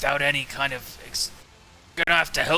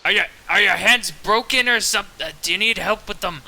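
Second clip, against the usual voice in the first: raised voice, calling out in concern; mock screaming. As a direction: holler an offer of help in character. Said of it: "Are you seriously screaming that?".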